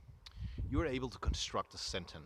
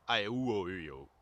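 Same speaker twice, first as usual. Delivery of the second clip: fast; 6 dB louder, faster than usual. Shown as a demonstration. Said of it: "Let's do that fast".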